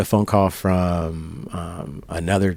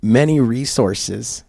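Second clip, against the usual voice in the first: a puffed-up official, a bit higher and louder; hammed-up bragging cop; pompous detective; 5 semitones higher, 4 dB louder than usual. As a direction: make the unit sound grand and self-important. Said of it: "He goes".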